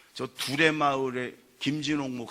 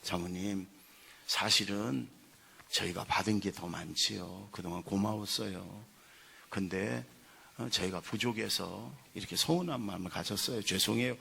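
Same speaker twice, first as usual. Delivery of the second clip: soft, lower-pitched contrite confession; quietly grateful, apologetic quote; retold humble apology; 5 semitones lower, 5 dB quieter than usual. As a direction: imitate a softened complainer apologising. Retold softened apology to pastor's wife.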